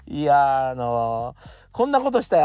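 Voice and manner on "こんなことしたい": mock eager dreamer. Mocking the friend's big plans.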